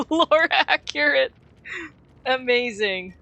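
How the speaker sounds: loud, high, drawn-out cheer; delighted exclamation. Real, not acted. Player celebrating a lore accurate match, delighted.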